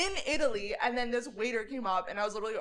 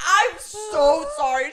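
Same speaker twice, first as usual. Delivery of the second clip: laughing apology; 6 semitones higher, 8 dB louder, much slower than usual. Retold or imitated. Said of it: "she was like".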